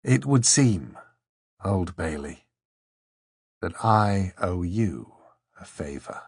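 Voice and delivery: hoarse, slow and fading; a touch of sadness, hoarse; hoarse and a little sad. A narrator's reading. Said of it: "hoarsely and perhaps a little sadly".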